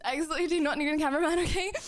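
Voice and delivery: fast, laughing through it; laughing retake. Real, not acted. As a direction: rush it out with a laugh. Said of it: "Ignore the fact that I'm still out of breath".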